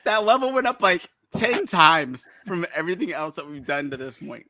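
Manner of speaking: strained, high voice through the burn; mouth on fire. Real, not acted. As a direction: talk while the heat hits. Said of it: "My mouth is on fire".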